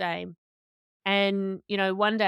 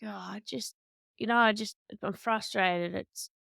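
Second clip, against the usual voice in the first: whinge. Retold or imitated. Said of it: "having a bit of a whinge".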